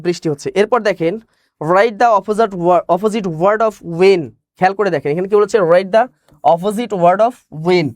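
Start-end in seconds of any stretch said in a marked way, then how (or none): 1.6-4.2 slow dictation. Shown as a demonstration. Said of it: "reading the question aloud". 5.7-7.9 slow dictation. Shown as a demonstration. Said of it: "rereading the question".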